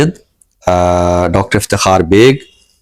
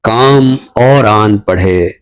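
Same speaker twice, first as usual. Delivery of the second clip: poem recitation. Acted. Poet repeats the line.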